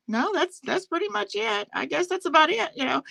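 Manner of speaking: hint of a shrugging, unimpressed host; imitating Natasha. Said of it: "Natasha's literally like".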